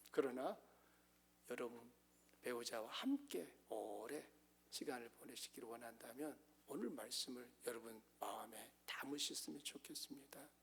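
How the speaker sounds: soft, low, earnest urging; hushed pastoral plea; gentle appeal. Real, not acted. Gentle appeal after sarcastic warning.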